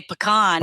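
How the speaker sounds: PECAN said puh-KAHN, long AH; majority pronunciation. Shown as a demonstration. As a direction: stress the second syllable of pecan, puh-KAHN. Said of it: "many Georgians, including my business partner".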